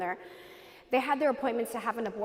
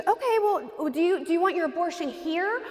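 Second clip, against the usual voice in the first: higher-pitched mock customer-service voice; imitated receptionist; 5 semitones higher than usual. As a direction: lightly imitate a receptionist offering options. Voices the receptionist offering options.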